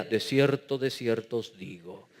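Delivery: low, soft, solemn scripture parody; mock-solemn pastor quoting scripture; old-Bible preacher voice. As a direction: intone it like an archaic Bible verse. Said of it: "hablaban como la Biblia Reina Valera".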